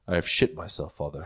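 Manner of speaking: put-on formal English-accented baby; baby announcing it in a proper English accent. Baby confessing to father, proper English accent. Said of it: "You have the same voice and accent".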